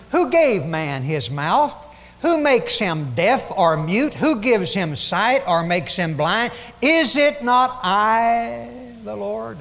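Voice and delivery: slow, loud, commanding God. Acted. God rebuking Moses, slow and booming. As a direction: let each question land slowly and heavily.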